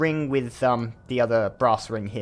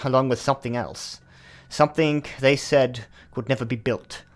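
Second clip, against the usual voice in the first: measured letter-reading in a slightly exaggerated English accent; a touch more English than usual. Mysterious host's letter to a trusted visitor, read in a put-on English accent. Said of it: "I'm gonna do an English accent for this one".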